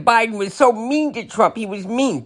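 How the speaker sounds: high mock complaint; mock whining supporter. Mocking Trump supporters' complaints, high mock whine. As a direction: whine like a hurt fan. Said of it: "So everybody said".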